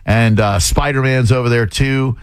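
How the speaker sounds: upbeat radio DJ delivery; radio announcer voice. Acted. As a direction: sell the parks like a radio ad. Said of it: "talking like a radio guy".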